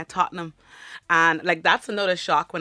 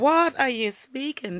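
slow, higher-pitched baffled question; mock bafflement; 7 semitones higher, slower than usual. Learner of the language hearing Dublinese, baffled. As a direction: act out a bewildered listener.

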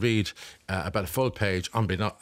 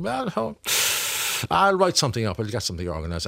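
voicing the actor; 3 semitones higher than usual.

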